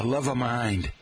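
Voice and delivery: lightly put-on Boston accent. Professors quoting a student's speech, Boston accent. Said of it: "you would say".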